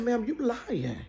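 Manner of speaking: high, slow, drawn-out disbelief; shocked slow denial to the nurse; stunned disbelief. Retold or imitated. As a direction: refuse to believe it. Told she is pregnant.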